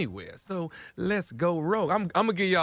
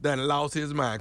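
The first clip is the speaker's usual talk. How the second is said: slow, drawn-out announcer-style intro; ignorant voice; 3 dB louder, slower than usual. Acted. Radio host teases the prank call, slow and drawn out. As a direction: stretch it out like a radio bit tease. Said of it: "now I'm gonna go ignorant for you".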